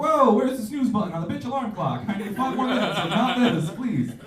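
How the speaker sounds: high, loud laughing retort; mock indignant comeback. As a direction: fire back sarcastically. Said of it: "I was like".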